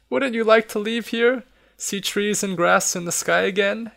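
coaxing question. Acted. Listener coaxes the old man.

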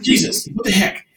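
imitating a fed-up angler swearing, half-hearted; retold cussing. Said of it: "we hear this cussing".

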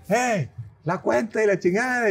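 imitated high-pitched call across a restaurant; calling a waiter. Diner retelling how he calls for the bill abroad, high imitated call. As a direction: call out impatiently, pitched well up. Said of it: "Te empiezan a gritar".

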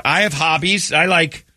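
lightly voiced speed dater; mock lady. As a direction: parrot her stiff answer. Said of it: "the one lady says".

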